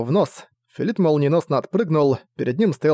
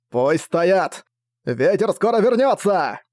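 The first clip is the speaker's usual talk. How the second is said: called order; 4 semitones higher, slower than usual. Acted. Commander calls order to crew.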